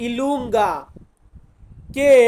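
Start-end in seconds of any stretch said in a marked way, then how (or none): 0.1-0.7 ইলুঙ্গা as one word, i-LUN-ga; Italian letter name. Shown as a demonstration. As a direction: say ইলুঙ্গা with the stress on লুঙ. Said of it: "Italian ভাষাতে বলবো ইলুঙ্গা". (Italian উচ্চারণে ইলুঙ্গা)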